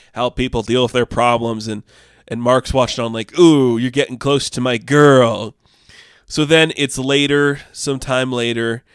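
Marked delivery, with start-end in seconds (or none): 3.4-5.6 slow mock-jealous tease. Mark watching jealously.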